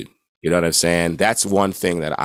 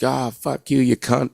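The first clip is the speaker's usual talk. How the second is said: imitating British; 8 semitones higher than usual. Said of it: "they're just like".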